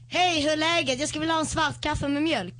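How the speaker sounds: a Swedish coffee order, lifted a little. Shown as a demonstration. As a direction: order "svart kaffe med mjölk" in Swedish. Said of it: "We say".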